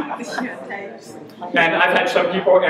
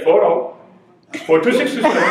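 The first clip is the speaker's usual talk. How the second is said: imitated Indian accent; 2 semitones higher than usual. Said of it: "And he's like".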